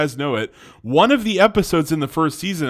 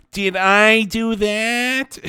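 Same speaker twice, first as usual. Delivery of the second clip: high, slow nasal-free nerdy catchphrase voice; slow put-on Steve Urkel catchphrase; 6 semitones higher, much slower than usual. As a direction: squeak it out like a nerdy sitcom kid. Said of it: "that's my best Steve Urkel".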